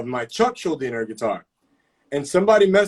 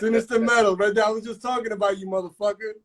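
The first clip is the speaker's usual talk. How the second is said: teasing friend; 5 semitones higher, faster than usual. Real, not acted.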